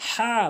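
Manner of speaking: "হা" with a strong throat h; wrong pronunciation. Shown as a demonstration. Teacher shows learners the mistake, forced "হা". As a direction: push the h of "হা" hard. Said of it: "ভুল উচ্চারণ".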